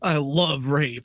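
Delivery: slow, put-on joke voice; funny voice. Co-host making an off-colour joke on recording, slow funny voice. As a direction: drag it out in a silly voice. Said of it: "I did it like a funny voice".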